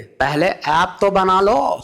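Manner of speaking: deadpan rebuke; Modi impression. Modi dryly telling him to build the app first.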